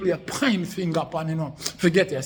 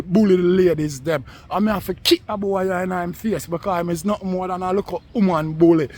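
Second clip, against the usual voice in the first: angry rant; 2 semitones higher, 4 dB louder than usual. Real, not acted. Ranting at online rival.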